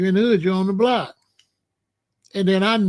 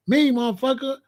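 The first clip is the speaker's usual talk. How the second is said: put-on Jamaican accent; 6 semitones higher than usual. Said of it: "they don't hear that accent".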